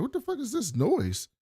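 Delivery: high, startled what-the-hell; jolted awake and indignant; startled outrage. Retold or imitated. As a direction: woken by noise, mock outraged. Woken up, annoyed by music.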